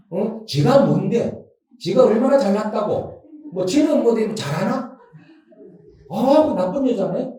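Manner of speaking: a touch of huffy outrage; acted indignation. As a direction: play someone riled up by gossip. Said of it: "막 이렇게 화를 내는 거야".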